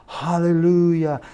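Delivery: high, drawn-out mock cheer; imitated congregation cheer. Whole church reacts to the missionary call, imitated screaming cheer. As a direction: stretch it out high like a rejoicing church. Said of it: "The whole church started screaming".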